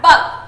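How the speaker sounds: bug with a short U vowel. Shown as a demonstration. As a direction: keep the vowel in bug brief. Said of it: "So this is short U sound word".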